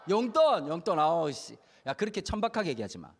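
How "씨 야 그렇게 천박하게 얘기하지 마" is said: ordinary talk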